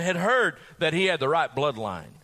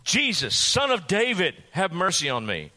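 cried out. Acted. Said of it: "He cried out and said".

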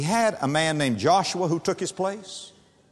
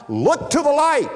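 rising call; 10 semitones higher than usual. Acted. Preacher urging hearers upward.

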